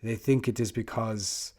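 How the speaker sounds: lightly imitated thick French accent; retold footballer's line with a French accent. Footballer addressing waiting journalists, imitated French accent. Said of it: "thick French accent".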